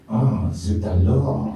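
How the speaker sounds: put-on slow, drawn-out French accent; mock French, lingering on the vowels. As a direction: stretch the French words out like a Frenchman. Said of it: "pee like a Frenchman".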